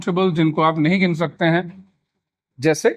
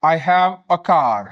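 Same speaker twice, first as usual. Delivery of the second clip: very slow, the "a" a short weak uh; "I have a car" with "a" said as a quick weak uh, slowly; slow careful model; 2 semitones lower, much slower than usual. Shown as a demonstration. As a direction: read it out word by word for students. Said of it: "pronunciation का थोड़ा सा ध्यान रखें".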